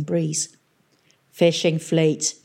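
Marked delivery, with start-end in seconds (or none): 1.3-2.3 satisfied grunt. Acted. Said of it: "he grunted, sounding satisfied".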